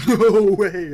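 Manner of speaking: loud, high, drawn-out exclamation; amused disbelief. Acted. Jog sees a teammate mauled, loud laughing disbelief. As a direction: burst out in stretched, gleeful disbelief. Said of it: "and actually start laughing".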